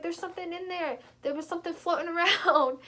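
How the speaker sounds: high mock-frantic report; retold panic. Kid telling mom about the floating thing, mock panic. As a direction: imitate a frightened kid, drawing out the end.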